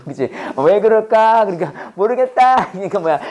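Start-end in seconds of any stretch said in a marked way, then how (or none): 0.6-2.7 giving up. Acted. Student baffled by dictionary meanings, mock giving up. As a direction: act out a learner who gives up. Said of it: "그리고 포기했지".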